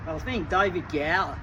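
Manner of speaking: a light, understated Australian accent, voice barely changed. Shown as a demonstration. Imitating an Ian Chappell remark to Richie Benaud in a light Australian accent. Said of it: "Okay, here goes".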